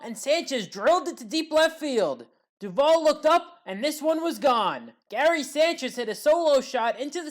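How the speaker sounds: building excited play-by-play; excited call. Real, not acted. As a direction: stretch out the moment the ball leaves. Sanchez home run call.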